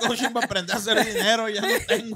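giggling through a son's excuse; half laughing, playing the broke son; laughing mock excuse.

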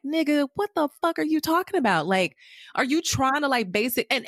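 can't believe what he just did; incredulous. Real, not acted. Podcaster reacts in disbelief to Nate's power move, voice jumping up. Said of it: "incredulous outburst at Nate".

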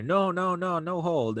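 retold urgent plea, pitched high; urgent refusal. Spanish-speaking driver to dispatcher who offers hold, urgent refusal. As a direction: imitate a caller cutting in with high, rapid-fire refusals.

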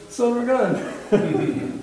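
slow, high-pitched marvel breaking into laughter; amused amazement. Acted. Believer hearing God's praise, slow laughing amazement. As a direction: draw it out, tickled and amazed.

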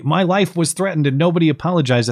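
mocking quote. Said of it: "when I heard this commentary".

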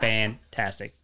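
slow flat deadpan. Shown as a demonstration. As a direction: stretch it out, no expression. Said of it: "Can't move your face".

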